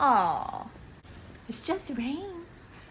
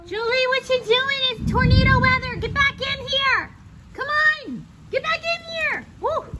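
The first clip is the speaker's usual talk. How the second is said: calling a dog; 3 semitones higher than usual. Real, not acted. Calling dog back indoors.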